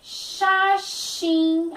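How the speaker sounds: Xaxim with both X as sh; clear Xaxim. Shown as a demonstration. Teacher showing the sh sound in Xaxim. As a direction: say Xaxim slowly, shi-shim. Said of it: "tanto no início quanto no meio".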